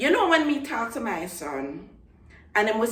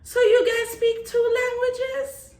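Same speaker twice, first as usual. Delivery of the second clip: high, slow astonished question; amazed question. Retold or imitated. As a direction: mimic a stunned classmate, drawn out. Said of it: "they're like".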